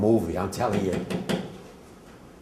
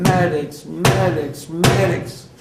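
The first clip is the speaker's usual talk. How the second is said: desperate high shout, much louder; screaming for medics; 9 semitones higher, 9 dB louder, much slower than usual. Retold or imitated. Soldier screaming for medics amid the dying, desperate shout. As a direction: yell for the medics across the camp. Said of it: "I started screaming".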